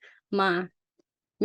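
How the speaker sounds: มา held level at mid pitch; middle tone. Shown as a demonstration. Tutor demonstrating for a student, middle tone. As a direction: say มา evenly, without bending it. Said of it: "middle tone".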